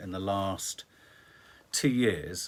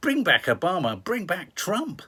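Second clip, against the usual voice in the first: mock plea; 7 semitones higher, 6 dB louder than usual.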